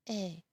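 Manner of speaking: E said as an open French "è"; E like the vowel in "bed"; E accent grave sound. Shown as a demonstration. French teacher introducing accent grave, open è. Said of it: "accent grave is also going to".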